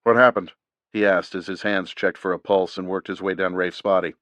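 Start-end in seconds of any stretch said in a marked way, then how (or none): 0.0-0.5 team medic. A narrator's reading. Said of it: "The team's medic".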